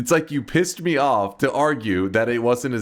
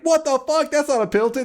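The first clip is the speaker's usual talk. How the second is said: mock angry coach; 3 dB louder, faster than usual. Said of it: "It's like".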